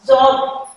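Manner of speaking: जॉब with a subtle d onset; teacher showing the hidden d in जॉब; correct English pronunciation. Shown as a demonstration. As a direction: begin जॉब on "dj". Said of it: "यहाँ पे ड जो है".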